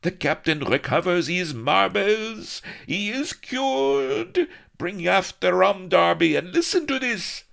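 loud, very high crew roaring; loud high crowd of pirates cheering. A narrator's reading. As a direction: roar the news to the ship. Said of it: "roars of".

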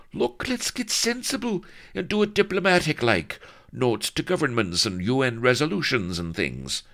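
high-pitched, worked-up grumbler; agitated, protesting Blood. A narrator's reading.

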